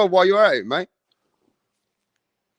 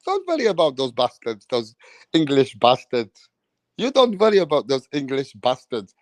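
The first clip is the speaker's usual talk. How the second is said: mock referee; 4 semitones lower, 3 dB quieter than usual.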